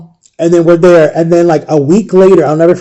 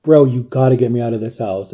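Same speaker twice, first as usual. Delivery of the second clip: emotional plea; 5 semitones lower, 7 dB quieter than usual. Retold or imitated. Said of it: "I get emotional".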